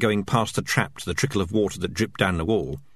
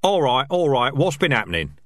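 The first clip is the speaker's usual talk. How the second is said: higher rat voices, chattering; squeaky rat chatter; 6 semitones higher, 3 dB louder than usual. Acted. Rat squad bickering over dead Fresh, higher. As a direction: voice the rats, pitched up. Dark Tan arrives.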